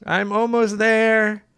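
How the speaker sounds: slow, drawn-out fake moan; mock breathless moan. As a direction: ham up the climax, slowly. Acting out the lewd email.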